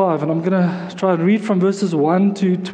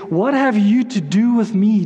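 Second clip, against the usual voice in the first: mildly raised voice on a scripture quote; crying out; 3 semitones higher, 3 dB louder than usual. A narrator's reading. Possessed man to Jesus in the reading, mildly cried out. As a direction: call it out a little, as a reader would. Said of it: "crying out with a loud voice".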